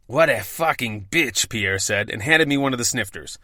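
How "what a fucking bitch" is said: put-on French accent. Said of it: "I know I do a terrible French accent".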